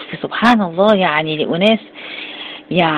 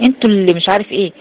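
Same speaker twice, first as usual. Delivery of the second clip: stubborn denier; 5 semitones higher, faster than usual. Retold or imitated. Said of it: "لا، يقول لك".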